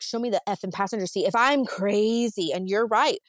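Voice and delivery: angry challenge. Retold or imitated. Challenging husband to prove her wrong.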